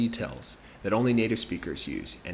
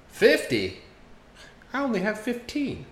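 shocked; 12 semitones higher than usual. Acted. Customer shocked by the steak price, much higher. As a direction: gasp at the price, then panic. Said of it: "when he was shocked".

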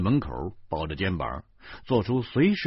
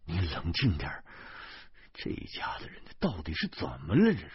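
exasperated; 3 semitones lower, 5 dB quieter than usual. A narrator's reading. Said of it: "无可奈何地说".

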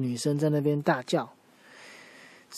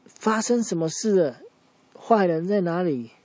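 urgent question; 5 semitones higher, 4 dB louder than usual. Acted. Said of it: "狮子王就问他说".

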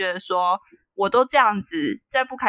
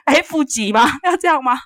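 sarcastic mockery; 3 semitones higher, 3 dB louder than usual. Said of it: "mocking grading system".

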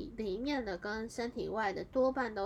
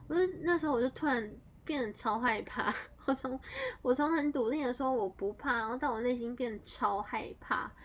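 scared retelling; 4 semitones higher, 5 dB louder than usual. Retold or imitated.

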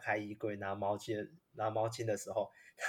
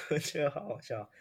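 trying not to laugh; 5 semitones higher than usual. Real, not acted. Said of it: "失态了".

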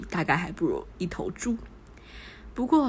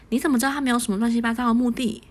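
teasing; 4 semitones higher, 4 dB louder, faster than usual. Acted. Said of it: "许静开玩笑道".

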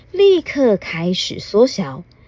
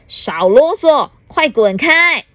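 louder and higher, slow angry bark; roaring at the fairy; 6 semitones higher, 5 dB louder than usual. Acted. Rude gentleman yells at the fairy to get lost, loud and slow. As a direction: shout the fairy away. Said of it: "大吼一声".

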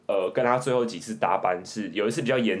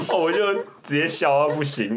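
laughing while speaking; 7 semitones higher, 4 dB louder than usual. Real, not acted. Telling it while still laughing.

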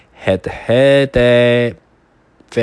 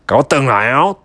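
shouting; faster than usual. Acted. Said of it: "大野狼大呼叫着".

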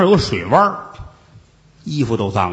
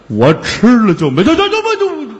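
laughing; 8 semitones higher, 4 dB louder than usual. Acted. 和尚笑着结巴说不下去.

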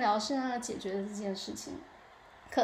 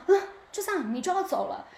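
higher and louder, a laughing disbelief; can't believe he's just leaving; half-laughing shock at being left alone; incredulous; 8 semitones higher, 5 dB louder than usual. Retold or imitated. Disbelief he leaves her there.

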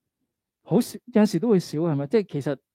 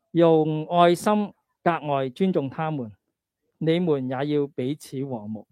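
slow Cantonese-accented Mandarin scripture reading; slower than usual. Shown as a demonstration. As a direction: read the verses slowly in Cantonese-accented Mandarin. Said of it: "慢慢嘅讀".

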